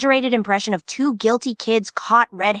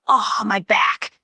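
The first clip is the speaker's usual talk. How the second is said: slow, pained mock groan; slower than usual. Narrator imitating Ragatha groaning on the floor, slow pained. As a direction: drag it out like a sore patient. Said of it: "she just groans like".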